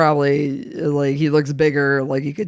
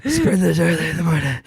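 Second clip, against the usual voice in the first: mock outrage. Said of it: "I was like".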